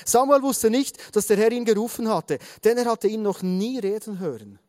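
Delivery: measured storytelling read-aloud; Bible story narration. A narrator's reading. Preacher reading the story of Samuel to the congregation, measured narration. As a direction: read the story out with deliberate phrasing.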